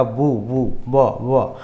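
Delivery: teacher isolating the opening b of बुक; sounding out. Shown as a demonstration. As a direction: break बुक down to its first sound, बू then ब. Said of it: "तो बुक उच्चारण कर रहे हैं".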